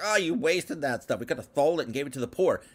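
fast, whiny mock grumble; a hint of mocking whine; mock complaint. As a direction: rattle it off like a petty critic. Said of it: "They're like".

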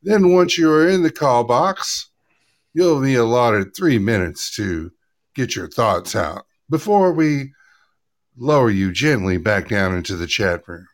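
lightly put-on cabin announcement voice; flight attendant voice. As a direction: read it like a polite in-flight announcement. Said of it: "Did you like the flight attendant voice?".

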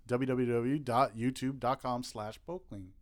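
running out of breath, fading; last words on no air left. Real, not acted. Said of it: "I ran out of breath there".

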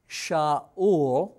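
Shaul said as shah-OOL with a rising end; Hebrew name Shaul. Shown as a demonstration. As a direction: Shaul in two syllables, the name held up. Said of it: "Shal for question or asking".

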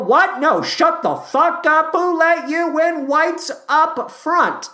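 high, loud indignant shouting; mock fury, ending slow and emphatic; outraged mock rejection. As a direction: shout them down as a hammed-up bigoted boss. Acts out producers rejecting the suggestion.

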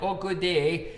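light Michigan-Wisconsin-Canada accent demo; quick imitation of a Great Lakes Canadian accent; Upper Midwest Canadian accent. Shown as a demonstration. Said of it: "Canada accent".

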